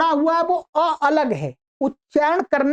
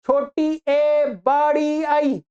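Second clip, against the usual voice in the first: drawn-out classroom recital of the wrong names; slow sing-song recital; slow wrong reading; much slower than usual. Shown as a demonstration. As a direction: spell it out slowly the way schools wrongly teach it. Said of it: "ये गलत है".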